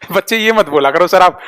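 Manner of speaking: real laugh leading into the words; laugh, then speak through amusement. Real, not acted. Teacher chides students for their replies, laughing.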